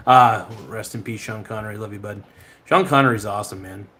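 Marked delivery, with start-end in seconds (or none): none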